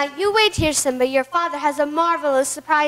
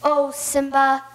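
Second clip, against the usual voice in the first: manipulative charm. Acted. Uncle deceives nephew sweetly.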